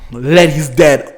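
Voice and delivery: loud, very drawn-out disbelief; slow, heavy, forceful repeat of bad news; emphatic shock. Real, not acted. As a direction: stretch it out and push hard.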